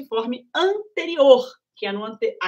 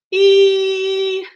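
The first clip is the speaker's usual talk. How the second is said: breathy voice demo; 7 semitones higher, 8 dB louder than usual. Shown as a demonstration. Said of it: "a prega vocal fica meio abertinha".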